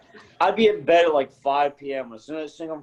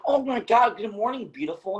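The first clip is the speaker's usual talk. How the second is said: high, sing-song morning greeting; mock chipper wife; 10 semitones higher than usual. Husband mimics his wife's cheery greeting, high and sing-song. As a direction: gush it like a too-cheerful wife. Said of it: "she's like".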